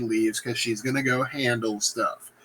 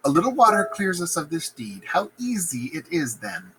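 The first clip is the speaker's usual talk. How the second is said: reread quote; 5 semitones higher than usual. Shown as a demonstration.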